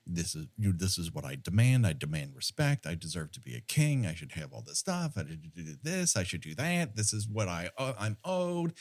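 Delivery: low, quiet mock villain rant of demands; leprechaun monologue. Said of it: "Where he's just going off on".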